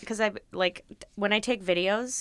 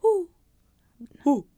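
owl hoot; 8 semitones higher, 6 dB louder than usual. Shown as a demonstration. Asked by a friend to do an owl, short hoot. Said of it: "Do an owl".

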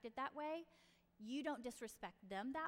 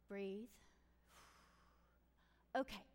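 calming down; 3 semitones lower, 3 dB quieter than usual. Acted. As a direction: exhale and settle yourself calmly. Parent models calming breath.

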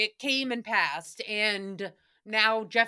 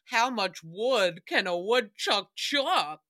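mock Jeff; 3 semitones lower, slower than usual. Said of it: "and he goes".

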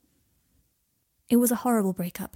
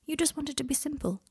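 softer, higher, reassuring voice; 6 semitones higher, 5 dB quieter than usual. A narrator's reading. Malfoy explaining Harry to himself, reassuring. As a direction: soothe him softly with a lifted pitch. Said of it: "his tone reassuring".

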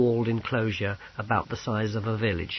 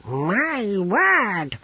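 high, drawn-out exclamation; wondering amazement; 9 semitones higher than usual. Acted. Apothecary stares at the unexpected visitors, amazed. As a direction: let it swoop up in wonder.

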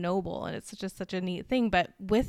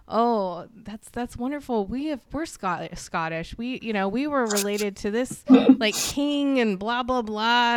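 higher-pitched imitation of an excited mom; gushing mom; 3 semitones higher, 6 dB louder than usual. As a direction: gush proudly about family roots, lightly mocking.

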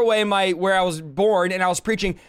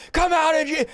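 mock altar shout; 7 semitones higher than usual. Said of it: "and everybody's screaming".

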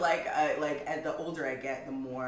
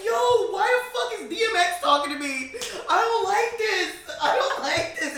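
high, loud, laughing protest; hammed-up upset at a friend's new voice; mock dismay; 14 semitones higher, 6 dB louder than usual. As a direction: complain in comic disbelief. Acting out reaction to deeper voice.

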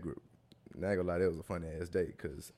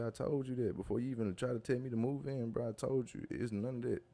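higher-pitched retold rant, not shouted; imitated telling-off; 5 semitones higher than usual. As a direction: imitate her insisting, voice pitched up. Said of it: "she started going off".

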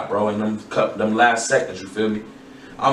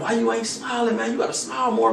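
mocking people's nagging; 9 semitones higher, 3 dB quieter than usual. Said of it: "Niggas like".

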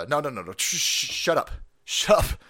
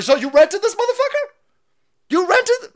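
much higher, louder disbelief; incredulous; 7 dB louder than usual. Retold or imitated. Grandson shouting at grandma in loud disbelief. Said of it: "I was like".

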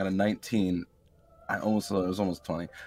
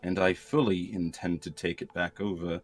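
prince's declaration. Acted. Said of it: "I'm doing my normal accent".

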